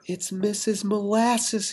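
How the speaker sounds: hushed, slow awed whisper. Acted. Peter whispering to Peg as she arrives, hushed. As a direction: breathe the name out softly. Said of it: "he whispered".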